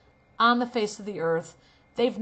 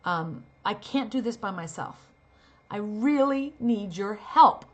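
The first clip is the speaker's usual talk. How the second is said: desperate plea. Shown as a demonstration. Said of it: "let's say the line is".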